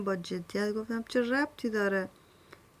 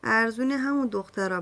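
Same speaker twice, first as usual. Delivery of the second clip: spiteful retort; 4 dB louder than usual. Acted. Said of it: "با حرص گفتم".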